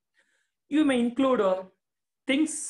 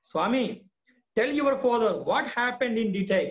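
lightly voiced mother, higher and urging; coaxing mother; 4 semitones higher than usual. Teacher voicing the mother urging Swami to speak, coaxing. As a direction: coax the boy to tell the truth. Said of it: "Mother is saying".

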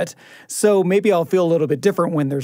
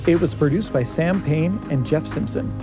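measured podcast credits announcer; credits read. Shown as a demonstration. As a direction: read the cast and crew list in an even announcer's cadence. Reads the episode's credits.

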